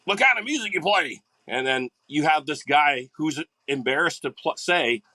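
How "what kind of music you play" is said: higher, chirpy mock question; lightly voiced curious stranger; curious questioner. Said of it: "you always get that question".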